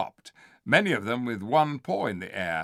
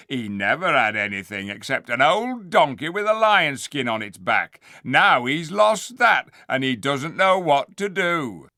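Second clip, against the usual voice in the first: gruff dwarf voice, raised and loud; voiced dwarf; 2 semitones higher, 6 dB louder than usual. A dwarf mocking the ape to the crowd, loud.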